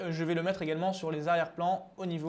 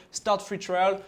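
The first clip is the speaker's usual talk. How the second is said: showy English accent on the phrase; French speaker putting on an English accent; 3 dB louder, much slower than usual. Real, not acted. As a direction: show off your English accent, jokingly proud. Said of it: "Vous avez vu mon accent".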